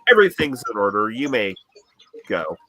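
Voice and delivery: fast, flat clerk brushing you off; monotone bureaucrat. Acted. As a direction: rattle it off like a bored official. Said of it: "monotone bureaucratic voice".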